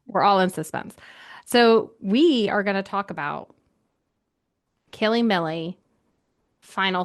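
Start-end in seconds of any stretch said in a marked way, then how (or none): 0.1-0.9 echoed spooky whisper. Pretend. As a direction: whisper it back mysteriously.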